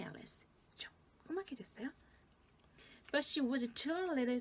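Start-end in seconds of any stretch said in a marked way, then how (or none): 0.0-1.9 tiny whispered voice. A narrator's reading. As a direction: whisper it like something very small.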